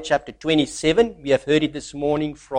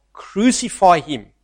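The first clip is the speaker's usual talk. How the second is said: a raised mock cry of the crowd; retold mob shout, somewhat louder; 2 semitones higher than usual. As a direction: push it out like the mob growing louder. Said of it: "they shouted all the louder".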